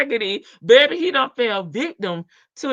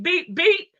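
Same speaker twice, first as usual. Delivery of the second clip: imitated horn beeps; 7 semitones higher than usual. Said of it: "I put a beep".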